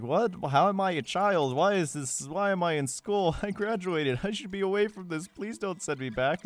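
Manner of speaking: put-on distressed complaint; mock dismay. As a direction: plead in hammed-up bewilderment. Player's reaction, acted.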